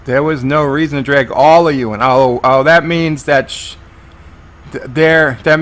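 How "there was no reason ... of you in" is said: quick delivery with "all" emphasized; stress on all. Retold or imitated. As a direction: lean hard on "all" in a quick line. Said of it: "He emphasized all".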